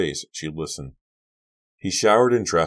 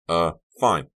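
embarrassed; 6 dB louder, slower than usual. A narrator's reading. Son asked about his date, embarrassed and flustered. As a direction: stumble out an awkward answer.

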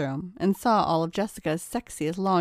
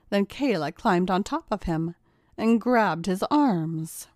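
ordinary delivery, nothing marked

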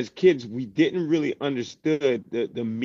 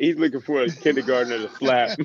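laughing; 5 dB louder than usual. Real, not acted. Laughing at the story.

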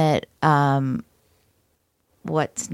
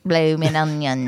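put-on Australian accent; 5 semitones lower than usual. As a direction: lower echo in mock Aussie. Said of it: "I can't do an Australian accent very well".

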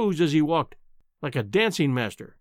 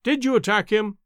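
london policeman; 5 semitones higher than usual. Acted. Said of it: "asked the policeman".

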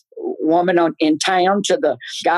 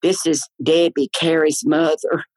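little voice. Retold or imitated. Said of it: "That little voice".

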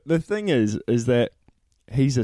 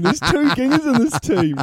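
insistent repeat; 12 semitones higher than usual. Real, not acted. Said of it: "repeats the claim over laughter".

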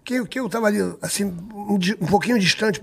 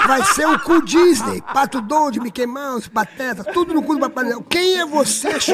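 indignant rant; 4 semitones higher, slower than usual. Retold or imitated.

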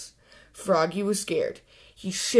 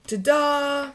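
proud ta-da; 7 semitones higher than usual. Acted. Froggy shows off costume.

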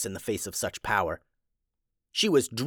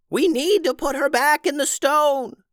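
put-on high, loud old witch shout; old witch yelling; 4 dB louder than usual. Tubes telling the heroes their plan, high shouted witch voice. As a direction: urge them on as the old witch. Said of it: "yelled Tubes".

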